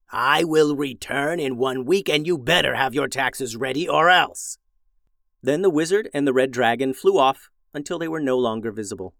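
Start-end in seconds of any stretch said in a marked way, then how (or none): 0.1-4.6 villain's threat. Acted. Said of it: "he yelled".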